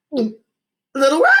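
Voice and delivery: high, slow squeaky yip; yipped. A narrator's reading. Zip panicking on the radio call, squeaky yip. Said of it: "I yipped".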